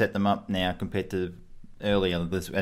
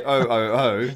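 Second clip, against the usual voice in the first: Santa's ho ho ho; 2 semitones higher, 5 dB louder than usual. Retold or imitated. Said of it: "He doesn't say".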